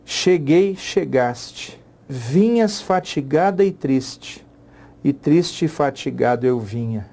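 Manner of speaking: slow, measured poem reading; reading verse aloud. Shown as a demonstration. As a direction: read the line like a poem. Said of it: "Tem um exemplinho aí".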